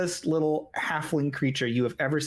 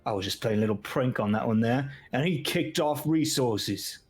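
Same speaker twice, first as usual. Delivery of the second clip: Dragonborn excusing himself to the gnome; 2 semitones lower than usual. Acted. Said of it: "you hear the Dragonborn say".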